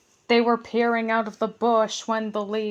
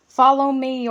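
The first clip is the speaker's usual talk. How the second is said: ordering; 3 semitones higher, 6 dB louder than usual. Acted. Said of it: "ordered Bertram".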